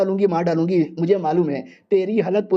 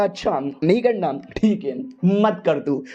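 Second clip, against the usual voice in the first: slow, offhand don't-care tone; dismissive shrug; slower than usual. Acted. Hero brushing off the girl's refusal, slow and offhand. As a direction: let it go lazily, not bothered.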